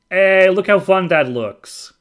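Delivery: high, loud, slow delighted gush; excited. Real, not acted. Delighted at game mode.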